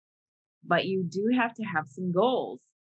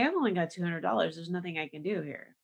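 defeated everyman; 3 semitones lower, 4 dB quieter than usual. Retold or imitated. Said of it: "most of us would say".

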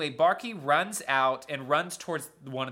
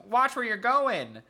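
higher, drawn-out warning yell; angry yell; 8 semitones higher, 4 dB louder, slower than usual. Retold or imitated. Steamroller driver yells at the girls, angry yell. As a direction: holler it as an irritated driver. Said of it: "the guy yells".

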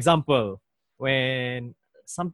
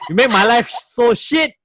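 mock angry rant; 10 semitones higher, 8 dB louder than usual. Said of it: "You give me".

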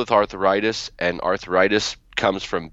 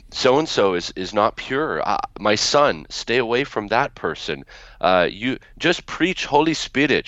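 imitated Middle Eastern grandmother's English, pitched up; grandmother warning in broken English; 3 semitones higher than usual. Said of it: "say that in her broken English".

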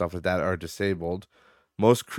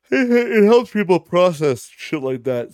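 laughing; 11 semitones higher, 10 dB louder than usual. Real, not acted. Laughing through a point.

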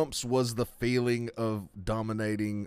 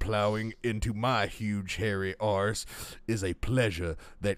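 burly voice. Acted. Co-host reads an article aloud to a laughing friend, mock burly voice. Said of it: "gonna read it in a burly voice".

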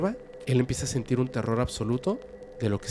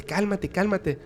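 higher voice, calming; soothing wife; 8 semitones higher, slower than usual. Acted. Betty calms frightened Barney, higher soothing voice. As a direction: settle him down.

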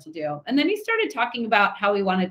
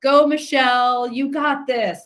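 imitated cheering; 4 semitones higher, 5 dB louder, slower than usual. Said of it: "He was saying things like".

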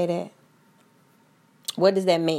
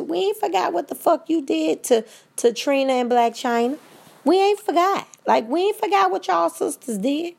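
rising outrage; 10 semitones higher than usual. Real, not acted. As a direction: let the outrage climb and shout it. Heated rant at the Kardashians.

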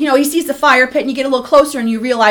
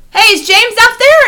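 put-on higher-pitched kid at the door; imitated kid calling; 7 semitones higher, 3 dB louder than usual. Kid at the back door asking for his friend, imitated calling. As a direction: call up like a visiting kid.

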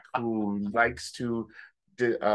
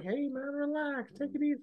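much higher, softer put-on voice; mock calming; 6 dB quieter than usual. Drunk friend telling the groom to relax, high mock voice. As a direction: soothe him in a silly high voice. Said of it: "I'm like".

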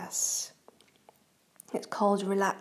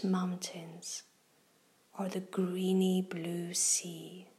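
guided meditation. Acted. Reads a kids' guided meditation.

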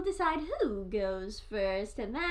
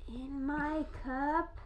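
muffled, speaking into a mug; into a cup; 3 dB quieter, much slower than usual. Real, not acted. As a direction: talk down into the cup. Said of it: "I probably shouldn't talk into the cup".

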